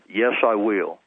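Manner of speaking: retold voice answering in an everyday tone; casual matter-of-fact answer. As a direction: answer simply, just as casually as asked. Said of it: "just like the way I said it".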